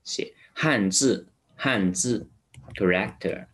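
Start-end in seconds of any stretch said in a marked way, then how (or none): 0.5-2.3 字 with a flat tongue and a buzzed z. Shown as a demonstration. Teacher modelling 汉字 for learners, flat-tongue z. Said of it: "这个呢就是平舌音".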